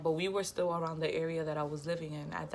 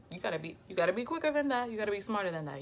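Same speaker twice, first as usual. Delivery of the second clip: higher-pitched, quick taunt; cocky retort; 4 semitones higher, much faster than usual. Retold or imitated. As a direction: rattle it off like you've outsmarted them. Gloating retort to cousin in story.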